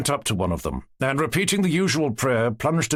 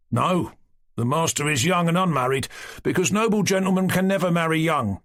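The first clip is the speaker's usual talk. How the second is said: didactic; 6 semitones higher than usual. A narrator's reading. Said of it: "said Vanyusha didactically".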